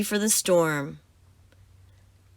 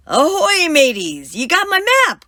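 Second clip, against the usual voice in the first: excited greeting; 9 semitones higher, 6 dB louder than usual. Acted. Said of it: "Grumpy Toad says".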